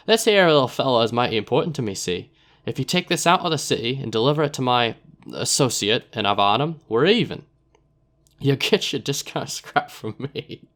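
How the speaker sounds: put-on rough accent, slowing and laughing at the end; sly dealer in a wobbly put-on accent; Narbo's rough accent. Narbo handing over the package, accented. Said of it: "I don't know what accent I'm doing".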